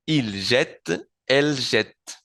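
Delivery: "jette" with the first E sounded, like "zhet"; E pronunciada. Shown as a demonstration. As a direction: model "jette" clearly, open E and final T. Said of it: "ahora sí pronuncio la E otra vez". ("jette" con la E bien pronunciada)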